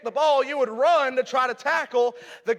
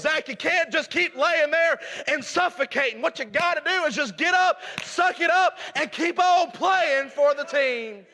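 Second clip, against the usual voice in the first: coach urging; 4 semitones higher than usual. Retold or imitated. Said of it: "what he told me was".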